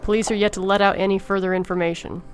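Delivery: lightly voiced TV newsreader; news anchor. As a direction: read it like breaking news on air.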